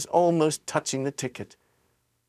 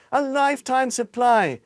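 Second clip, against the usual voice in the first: enviously; 10 semitones higher, 3 dB louder than usual. A narrator's reading. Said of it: "said enviously".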